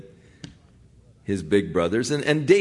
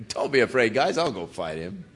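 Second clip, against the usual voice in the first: laughing; 3 dB quieter than usual. Retold or imitated.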